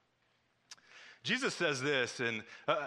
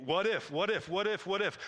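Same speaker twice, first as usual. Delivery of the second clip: voice of fear; 4 semitones higher than usual. Acted. Acting out fear's repeated question.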